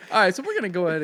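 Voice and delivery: laughing through the words. Real, not acted. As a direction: giggle while starting. Laughing at the bit.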